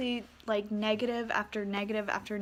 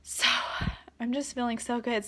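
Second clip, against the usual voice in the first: ugly crying. Real, not acted.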